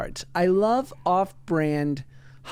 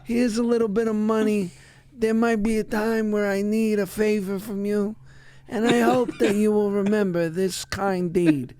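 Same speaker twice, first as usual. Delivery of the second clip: a hint of a mafia don, slightly raised; mob boss; 3 semitones higher than usual. Casper imagined as a mob boss offering a favor, lightly voiced. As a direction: play a polite menacing gangster, lightly. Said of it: "like the mob reached out".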